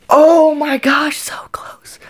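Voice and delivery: whispered groan of a near miss; dismayed whisper. Real, not acted. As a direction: breathe it out in disbelief.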